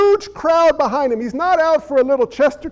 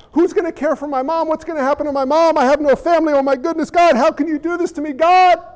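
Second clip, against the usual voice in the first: pitched-up mild anguish, building at the end; anguished son's plea; 5 semitones higher, 3 dB louder than usual. Retold or imitated. The dying son pleading with God about his mother, mildly anguished. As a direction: worry aloud for mom, rising.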